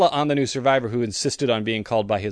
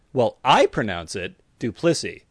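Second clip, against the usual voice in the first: "I" leaned on in "I pronounce it"; stress on I. Shown as a demonstration. Telling someone how he says his surname, stress on "I". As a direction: put the weight on "I", then say Duplessis evenly. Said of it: "I'm emphasizing that it's the way I pronounce it".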